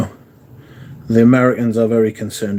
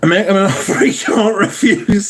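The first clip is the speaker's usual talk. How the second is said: mock Godfather; 8 semitones higher than usual. Godfather line quoted from chat.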